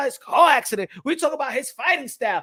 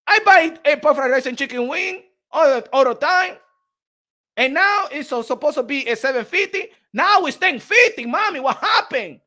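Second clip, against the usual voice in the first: retold complaint; 3 semitones higher, 4 dB louder than usual. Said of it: "I said".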